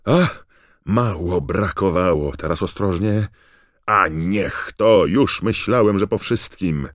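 loud, high-pitched running commentary; agitated commentator watching a near miss; Bagman's excited voice. A narrator's reading. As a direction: call it out breathlessly caught up in the danger. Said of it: "podniecony głos Bagmana".

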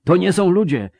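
high, loud wail of dread; moaning. Acted. Mercenary convinced the foes are not human, moaning. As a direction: wail it out in fear. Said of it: "wyjęczał któryś z najemników".

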